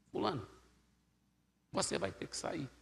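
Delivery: softly spoken command; very low voice. Retold or imitated. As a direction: order it quietly, without force. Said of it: "eu falei bem baixinho". (ordem dita bem baixinho)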